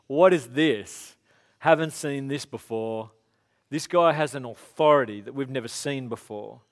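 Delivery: slow, loud astonished whoa; amazed crowd. Retold or imitated. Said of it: "And everyone's going".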